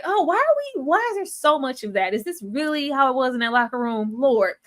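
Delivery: high, exasperated disbelief; incredulous. Retold or imitated. Watching the show, high exasperated disbelief. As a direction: throw up your hands at it. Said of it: "And it's like".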